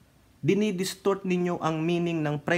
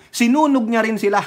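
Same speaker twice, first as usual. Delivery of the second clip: louder words broken by laughter; laughing; 6 semitones higher, 7 dB louder than usual. Real, not acted. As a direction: laugh through the punchline. Laughing while telling. (natatawang pagsasalaysay, mas malakas)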